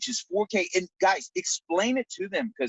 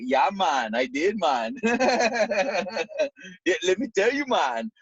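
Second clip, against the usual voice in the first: put-on Jamaican accent; 2 semitones higher than usual. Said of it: "sounds like you just got back from Jamaica".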